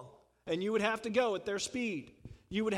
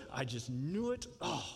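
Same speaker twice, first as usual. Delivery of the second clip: grumbling Jonah. Retold or imitated. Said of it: "But Jonah goes".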